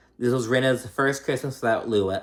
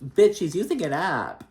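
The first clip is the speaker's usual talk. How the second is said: exasperated; 7 semitones higher than usual. Real, not acted. Exasperated aside at Dorit.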